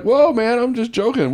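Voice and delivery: high, urgent mock protest; alarmed backing off. Comic to angry biker in the audience, imitated alarmed placating. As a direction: back off fast from a threat.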